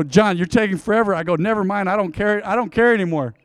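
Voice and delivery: playful fed-up sass; mock attitude. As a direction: give him some teasing attitude. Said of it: "He laughs at attitude".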